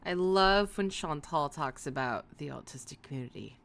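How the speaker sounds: dry sarcasm; mean the opposite, deadpan; sarcastic. Real, not acted. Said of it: "hear the sarcasm in my voice".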